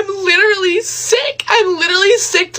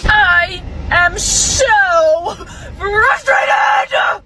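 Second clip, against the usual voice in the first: sobbing, shouting through tears; furious and heartbroken; crying rant; much slower than usual. Real, not acted.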